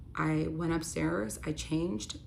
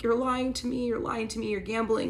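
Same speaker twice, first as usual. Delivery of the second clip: high, pleading accusation through tears; tearful accusation; 5 semitones higher than usual. Retold or imitated. Accusing her lying husband, high and upset. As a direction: cry it out at him, voice pitched up. Confronting lying partner, crying.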